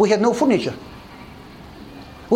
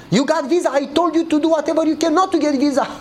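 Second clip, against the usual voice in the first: higher, amused scolding wife; laughing wife; 6 semitones higher than usual. Retold or imitated. Wife scolding her husband for getting the visa, laughing. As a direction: tease him through a laugh.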